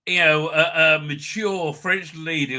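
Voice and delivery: slow, lightly husky sexy French lady; a hint of a sultry French lady. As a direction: drawl it like a mature seductress. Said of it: "sounds like this".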